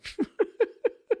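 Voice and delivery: a high, light burst of laughter; amused laugh. Real, not acted. Teacher laughs at the emperor simply walking away, high and amused. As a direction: laugh off the idea of giving up.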